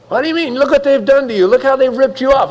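a nosy friend stoking the grudge, high and indignant; indignant egging on. Retold or imitated. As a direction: play the friend who stirs up outrage.

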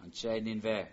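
Anshe Ninve as one word, accent on Ninve, Anshe unstressed; stress on Ninve. Shown as a demonstration. Teacher shows the construct phrase to students, stress on Ninve. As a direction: run Anshe into Ninve and hit Ninve. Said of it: "accents at the, uh, Ninve and not on Anshe".

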